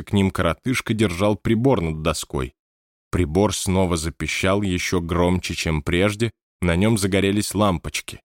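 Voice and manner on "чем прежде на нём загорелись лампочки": ordinary delivery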